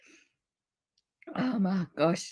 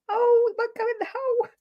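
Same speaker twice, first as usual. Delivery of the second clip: high, giggling frustration; laughing squeal; 11 semitones higher, faster than usual. Real, not acted. Crafting on stream, straw won't fit, laughing.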